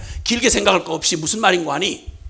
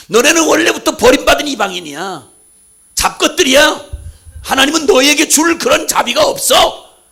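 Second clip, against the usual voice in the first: contempt; 4 semitones higher, 5 dB louder than usual. Acted. Jews despising the Samaritans.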